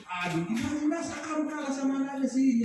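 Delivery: put-on a parent half-scolding, comparing with the neighbour's kid; tut-tut disappointed nag, lightly voiced; mock nagging comparison. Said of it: "Ini tetangga".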